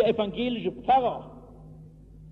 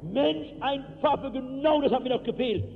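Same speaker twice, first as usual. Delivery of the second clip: a mild mock yell; retelling the shout softened for the microphone; toned-down shout; 4 semitones higher than usual. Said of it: "also ich kann nicht so schreien".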